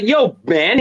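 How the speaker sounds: casual put-on accent; a touch of a street accent; imitating an accent. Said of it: "with the accent that I love".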